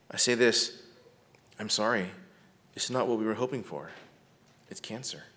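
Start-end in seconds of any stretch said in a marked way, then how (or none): 1.6-5.2 softer, quietly delivering bad news; quiet compassionate doctor; soft, gentle bedside voice. Shown as a demonstration. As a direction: gently break the news to a patient. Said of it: "I make sure to speak quietly, softly, gently, compassionately".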